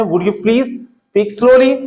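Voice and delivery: each word laid out slowly and clearly; slow model sentence. Shown as a demonstration. Teacher slowly models a phrase for students. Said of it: "तो आप बोल सकते हैं".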